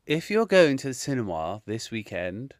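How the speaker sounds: put-on posh English accent, measured phrasing; lightly hammed-up posh English. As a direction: do your best mock-posh announcement. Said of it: "let me put my best posh voice on here".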